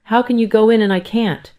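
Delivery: high, loud, indignant question; shouted protest. A narrator's reading. Mother left outside challenging her daughter-in-law, shouted protest. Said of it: "I shouted".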